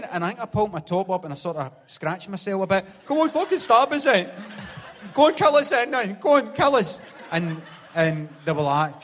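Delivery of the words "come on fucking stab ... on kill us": put-on high, loud drunken dare; rising, yelled come on then; taunting shout. Drunk man daring two guys in a graveyard, high taunting shout.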